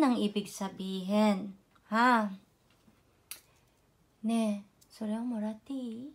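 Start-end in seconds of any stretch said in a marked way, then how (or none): 4.3-6.1 coaxing sweetly. Shown as a demonstration. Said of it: "Paglambing-lambing".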